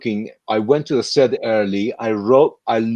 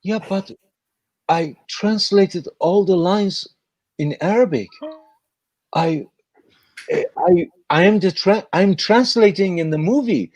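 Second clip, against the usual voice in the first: imitating the kid; 5 semitones higher than usual. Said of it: "this was his face".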